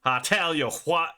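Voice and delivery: imitated Southern twang with a laugh. Streamer echoes his friend's twang, mock Southern accent. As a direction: echo the Southern twang playfully. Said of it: "It has a nice twang to it".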